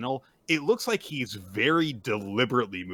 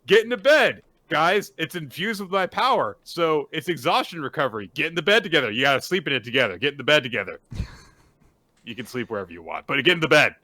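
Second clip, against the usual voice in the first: bossy announcer; 5 dB louder, faster than usual. Retold or imitated. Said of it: "And it's like".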